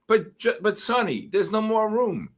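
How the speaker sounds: high-pitched mock pleading to the boss; protesting henchman. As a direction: object in a high voice, haltingly. Acts the henchman's protest to Sonny.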